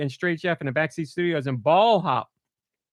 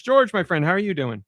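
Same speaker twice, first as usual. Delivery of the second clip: excited greeting; 4 semitones higher than usual. Real, not acted. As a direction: draw out the welcome to George. Host greeting guest warmly.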